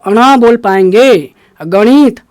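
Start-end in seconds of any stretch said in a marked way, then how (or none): 1.6-2.2 गणित with a nasal retroflex n; गणित said as "ganit"; correct nasal ण. Shown as a demonstration. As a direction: model गणित, the n sound showing. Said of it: "न की मात्रा झलकनी चाहिए".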